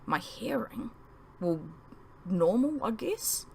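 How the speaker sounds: soft hushed reply; whispered back. Acted. Boy whispering back to Charlie in the corridor, hushed. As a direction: breathe it back quietly. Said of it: "I whispered back".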